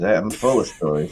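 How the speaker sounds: low, loaded hint of many tales; knowing boast. Real, not acted. Friend asks about one night stands, knowing low boast. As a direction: let it sound like a whole book's worth. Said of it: "you said that like you got a whole book's worth".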